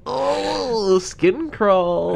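high, drawn-out squirm of disgust; grossed out. Real, not acted. Reacting to Peter's slimy flirting, creeped out. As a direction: recoil with a long high-pitched groan into the words.

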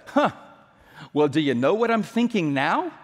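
understated smart-aleck comeback; sarcastic retort. Retold or imitated. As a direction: retort with mock-innocent sarcasm. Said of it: "very well-developed gift of sarcasm".

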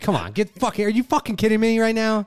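high, loud laughing disbelief; exasperated outburst. Real, not acted. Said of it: "mocking the calm parenting idea".

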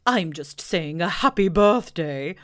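loud, slow offhand owl; careless. Acted. Owl bluffing to Pooh, offhand. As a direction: toss it off airily. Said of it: "said Owl carelessly".

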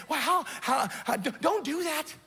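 mock whiny voice of money tempting you. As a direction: beg them not to give you away. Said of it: "that voice is saying".

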